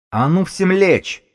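high, loud squeal of a command, stretched out; thin-voiced yell. A narrator's reading. Bomber with a grenade ordering everyone down, thin shrieking yell. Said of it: "заорал Бабак своим тоненьким голоском".

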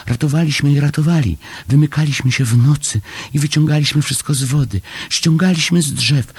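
high, fast, agitated small voice; excited little Chomek. A narrator's reading. Chomek telling Paszczak of the secret rescue, high excited rush. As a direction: pour it out high and breakneck. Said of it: "wyraźnie poruszony".

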